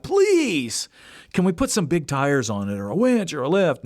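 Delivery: put-on high pleading kid's please; mock kid begging dad for a lift kit. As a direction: whine for big tires. Son begging dad for mods.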